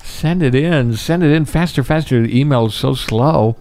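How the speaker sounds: high, whiny impatient viewer voice; mock impatient audience. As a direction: hurry them like an annoyed fan. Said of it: "everybody at home is like".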